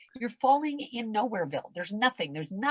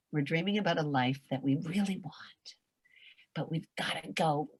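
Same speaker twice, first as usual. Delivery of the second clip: whisper; 3 semitones lower than usual. Acted. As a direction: breathe it like a secret dream. Dreamy whispered aside.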